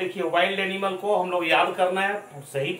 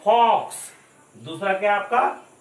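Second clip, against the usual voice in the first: louder teacher drill; 4 semitones higher, 4 dB louder than usual. Shown as a demonstration. Teacher drilling animal names for the class, loud. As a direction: call each word out firmly. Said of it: "teacher repeats words loudly".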